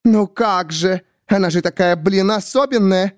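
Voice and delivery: high, slowed sneering; mock her specialness; bitter sarcasm. A narrator's reading. Miriam mocking Grace to the narrator, high bitter.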